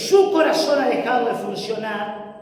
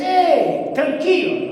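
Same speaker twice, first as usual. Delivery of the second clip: a casual, breezy "Eh, tranquilo", tossed off higher; offhand dismissal; 6 semitones higher, slower than usual. Shown as a demonstration. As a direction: brush it off like it's nothing. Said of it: "No les dice así". ("Eh, tranquilo" dicho a la ligera, despreocupado)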